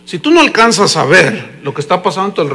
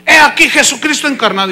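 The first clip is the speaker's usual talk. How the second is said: lightly mimicked announcer; presenter's hype; 2 semitones higher than usual. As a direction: present him like a star guest. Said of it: "el que lo estaba presentando".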